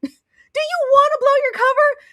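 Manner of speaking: high scolding through laughter; laughing scold. Retold or imitated. Host scolding Daisy while laughing, high. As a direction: scold her while cracking up. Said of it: "I said".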